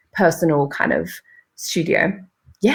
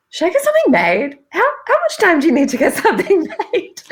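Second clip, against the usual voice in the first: mock panic; 11 semitones higher, faster than usual. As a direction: play your own past panic with a laugh. Retells panicked self-question.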